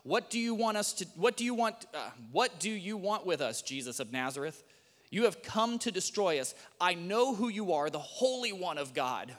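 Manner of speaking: loud, high panicked cry of a possessed man. Acted. Possessed man crying out at Jesus in the synagogue, loud and frantic. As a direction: shriek it like a tormented demon confronting Jesus. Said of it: "cried out".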